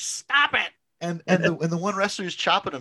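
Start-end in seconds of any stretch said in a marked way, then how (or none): 0.0-0.7 high, loud yell; imitating a woman yelling at wrestlers; yelling stop. Fan in the front row yelling at wrestlers, high and loud. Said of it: "she just started yelling at the wrestlers".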